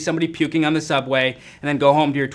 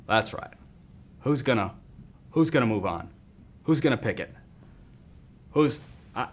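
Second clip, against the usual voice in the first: glitch impression; 6 semitones lower, 7 dB quieter than usual. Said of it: "that's my impression of a glitch".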